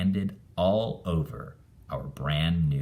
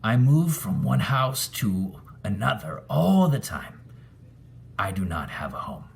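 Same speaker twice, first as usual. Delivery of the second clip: sad ghost; 4 semitones higher than usual. A narrator's reading. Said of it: "It lowered its ghost eyes".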